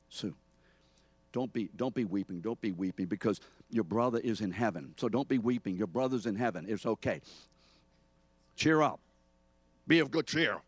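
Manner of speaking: brisk, pushy comforting that builds to a loud cheer up; dismissive consoling. Acted. Believer handling a weeping mourner at a funeral, brisk dismissive cheer. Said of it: "here's how they handle you".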